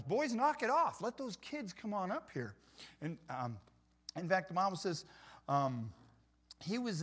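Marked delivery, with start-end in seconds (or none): 0.0-2.5 a touch of indignant Jesus. Retold or imitated. Jesus scolding his disciples for blocking children, mildly firm. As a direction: sternly tell the boys to stop. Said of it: "Jesus said to his disciples".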